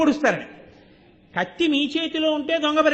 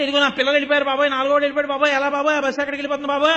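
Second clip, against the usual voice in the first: louder, fast, pleading shout; retold desperate shout; 3 semitones higher, 5 dB louder, much faster than usual. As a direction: rush out a frantic plea for help. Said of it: "అని అరవడం ఎలాగో". (వేగంగా, గట్టిగా వేడుకునే అరుపు)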